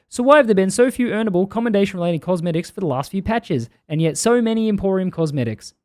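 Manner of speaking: put-on unconvincing New Zealand accent; wobbly put-on Kiwi reading; bad Kiwi accent. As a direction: attempt a Kiwi accent and miss. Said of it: "this isn't a good Kiwi accent at all".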